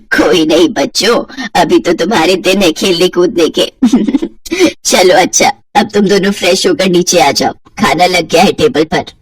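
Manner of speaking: lightly voiced older woman, amused; mother-in-law voice. Kamla teases her son and new bride, amused older woman.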